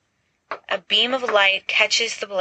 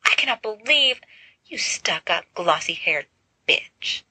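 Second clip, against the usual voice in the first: outraged; 3 semitones higher than usual. A narrator's reading. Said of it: "eyes going wide with outrage".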